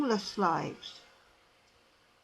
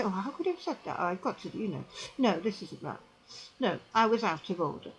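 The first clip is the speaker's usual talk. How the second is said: soft, lower, sheepish murmur; quiet guilty sigh of words; rueful self-reproach; 6 semitones lower, 6 dB quieter, faster than usual. Retold or imitated. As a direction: mutter it to yourself with regret. Ashamed inner voice.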